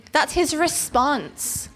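slow incredulous aside; dismayed. Acted. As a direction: let it land slowly in disbelief. Preacher stressing Zacharias' reply.

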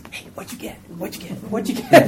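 a hushed then rising "what'd you get" pestering; playing students comparing grades after a test; mock nosy classmate. Mock classmate asking around.

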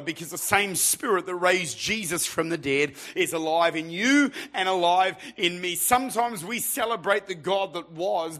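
emphatic revival preacher; impassioned preaching. Real, not acted. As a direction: preach with rising fervour. Preaches at full force.

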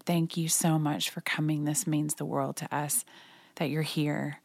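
quietly grateful, lightly voiced widower; soft grateful thanks. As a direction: murmur the thanks, moved and soft. Widower thanking her, hugging warmly.

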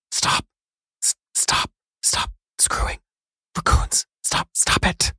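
urgent hissed whisper-shout; whisper yelling. Retold or imitated. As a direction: yell it under your breath. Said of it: "What am I whisper yelling?".

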